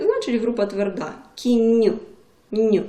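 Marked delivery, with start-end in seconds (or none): 1.3-2.8 "Кінь" with a softened, palatal "н"; soft consonant. Shown as a demonstration. Teacher shows pupils a soft ending, soft consonant demo. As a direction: dwell on the soft "нь" at the end. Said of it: "м'який приголосний".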